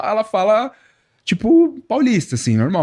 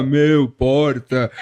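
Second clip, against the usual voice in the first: put-on São Paulo accent; 5 semitones lower, much slower than usual. Boyfriend mocking his girlfriend's São Paulo accent, slow and drawled. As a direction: drawl Meu, porta like a São Paulo local. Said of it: "sotaque paulistano aqui que fala".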